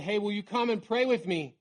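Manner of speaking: lightly acted calling out to friends; earnest retold appeal, slowing on the last words. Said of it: "He called out to his disciples".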